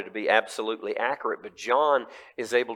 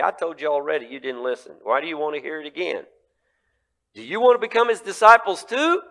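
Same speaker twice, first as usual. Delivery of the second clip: rising, louder taunt to high pitch; mocking retort; 4 semitones higher, 4 dB louder, faster than usual. Healed man taunting the religious leaders, mocking. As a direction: needle them with the question.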